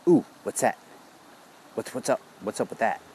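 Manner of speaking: a nosy little voice peeking over; curious fatigue voice. Retold or imitated. Speaker voices his fatigue noticing something new, perked up. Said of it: "fatigue kinda goes".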